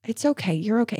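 put-on soft soothing to a crying child; comforting. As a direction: reassure gently, keeping the voice down. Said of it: "I was comforting her".

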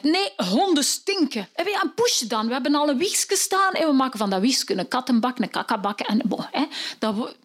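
wife dismissing dogs and cats; wife's voice. Acted. Wife answering.

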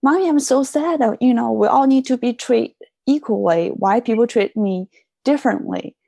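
mother gently voicing her six-year-old daughter; child's voice. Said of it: "She said".

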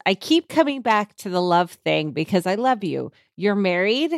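dramatic reading. Shown as a demonstration. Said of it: "time for me to do a dramatic reading".

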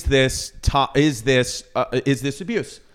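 speaking with a lisp. Acted. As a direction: put on a lisp. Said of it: "Why is there a lisp coming out?".

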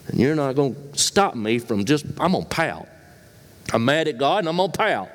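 a mock sulky pout, rushed at the end; pouting sulk. Pastor imitating a pouting believer, hammed-up sulk. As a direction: play the stubborn pouter, mildly. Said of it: "Just pout?".

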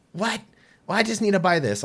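high, loud indignant whine; whiny customer. Retold or imitated. Customer protesting the ban, high indignant whine. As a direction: play the offended shopper. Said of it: "and she goes".

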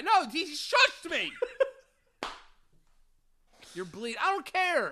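high, slow laughing complaint; mock offended victim. Victim complaining he was shushed, high laughing whine. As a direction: whine about being shushed.

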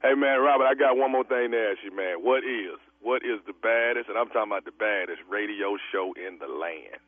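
deep, booming radio host voice; radio host hype. Acted. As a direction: hype it like a morning show host.

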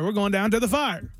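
"fire" said in Appalachian style; Appalachian pronunciation. Shown as a demonstration. Host showing Appalachian speech, "fire" in their accent. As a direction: put an Appalachian twist on "fire". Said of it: "they'll pronounce it like fire".

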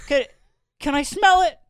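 high, loud mock investor; put-on shark-investor voice; Kevin O'Leary. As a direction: pitch it way up for a hammed-up TV investor. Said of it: "It's, like, Kevin O'Leary".

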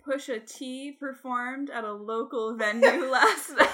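crisp news anchor read; newscaster voice. Pretend. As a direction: read it like a reporter. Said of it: "You sounded like a newscaster".

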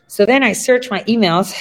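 ordinary talk, nothing marked

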